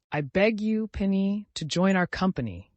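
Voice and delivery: formal, courteous invitation, pitched high; bow as you invite him; polite. A narrator's reading. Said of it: "he added politely".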